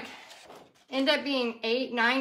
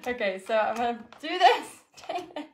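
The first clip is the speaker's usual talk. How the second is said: tearing with teeth; 2 semitones lower than usual. Real, not acted. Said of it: "I'm gonna have to use my teeth".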